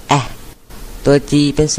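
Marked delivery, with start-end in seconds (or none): 0.1-0.2 "แอะ" as a short, cut-off a as in bag. Shown as a demonstration. Teacher answering her vowel question, short A. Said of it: "ตัว A เสียงสั้น".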